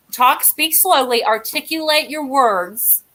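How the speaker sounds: slow, careful self-coaching; slow, articulated. Retold or imitated. Guest re-enacts prepping herself for the show, slow and articulated. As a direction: spell out each word deliberately, as if drilling yourself. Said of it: "I was trying to prep myself this evening".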